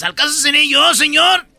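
high innocent asking; innocent question. Acted. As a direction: play innocent, rising at the end. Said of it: "Y dice Judas".

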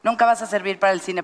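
retold director. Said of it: "el director me dijo".

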